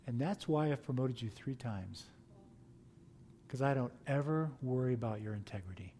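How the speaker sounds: soft, half-whispered parting words; quiet. Retold or imitated. Boss's quiet parting remark.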